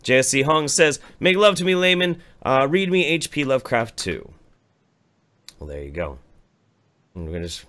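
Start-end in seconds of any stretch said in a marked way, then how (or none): 1.2-4.3 mock swooning plea. Reading a lewd chat message.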